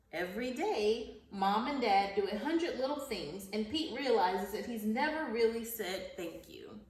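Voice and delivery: animated picture-book narration; reading to children. Acted. Teacher reading Pete the Cat to her class, storybook narration. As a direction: read the story aloud to young pupils, lively at the start.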